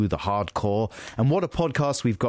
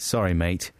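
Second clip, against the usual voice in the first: put-on light, casual Australian accent; 3 semitones lower than usual. Apologising to co-host for the teasing, Australian accent. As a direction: toss it off in a low-key Australian accent. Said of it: "say that in an Australian accent".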